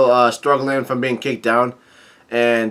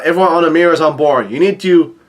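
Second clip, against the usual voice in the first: quick, slightly raised urgent order; mild retold yell; 3 semitones higher, 3 dB louder than usual. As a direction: rush out a half-shouted command to the crew. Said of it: "Nami yells out".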